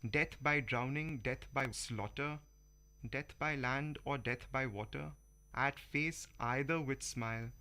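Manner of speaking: rhythmic, measured poetry reading with rhymes brought out; poem recital. Acted. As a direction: recite the fable like reading verse to an audience. Reads Vikram Seth poem aloud.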